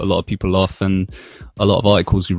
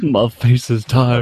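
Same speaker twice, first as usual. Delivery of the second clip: slow, deadpan, lightly voiced; mock emotionless delivery; bad acting; 3 semitones higher, 4 dB louder, slower than usual. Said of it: "portraying no emotion whatsoever".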